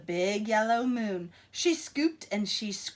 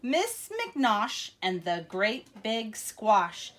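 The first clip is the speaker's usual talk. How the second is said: put-on reading to children. Reading a picture book to children.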